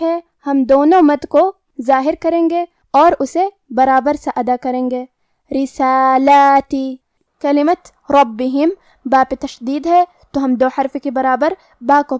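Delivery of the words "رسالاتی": رسالاتی slow, light را and two equal long alifs; light را, even stretched alifs in رسالاتی; thin ra. Shown as a demonstration. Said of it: "ہمیں را کو پتلی آواز میں پڑھنا ہے". (رسالاتی میں را پتلی اور دونوں مد برابر)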